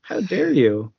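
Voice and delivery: high, slow mock scream of "We made you!"; hammed-up high shriek. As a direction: shriek it like a hysterical waitress.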